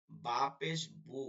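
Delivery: বু with lips pressed shut, then a long oo; wet-lip b. Shown as a demonstration. Teacher shows where b is made, slow closed-lip buu. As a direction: slowly spell out বা পেশ বু, lips closing on b. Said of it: "ঠোঁটের ভিজা জায়গা না?".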